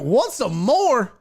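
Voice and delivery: mocking taunt. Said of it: "They were like".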